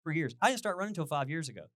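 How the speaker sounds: an eager runner talking a skeptic round; eager reply. Retold or imitated. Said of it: "and we were like".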